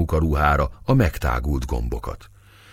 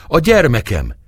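choking cry; 8 semitones higher, 5 dB louder than usual. A narrator's reading. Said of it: "kiáltozta fuldokolva".

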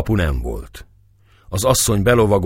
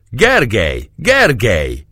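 higher, louder excited call; joyful call; 4 semitones higher, 5 dB louder, slower than usual. A narrator's reading. Dobó calling Gergely toward the bastion, joyful shout. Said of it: "kiáltotta".

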